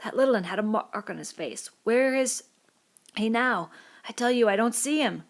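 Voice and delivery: put-on a frightened boy, pleading; Piggy distraught. Piggy telling the boys the little un is gone, distraught. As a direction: insist with rising fear.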